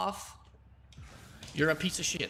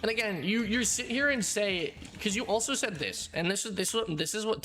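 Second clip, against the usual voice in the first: indignant outburst; 7 semitones higher than usual. Real, not acted. Calling out opponent in anger.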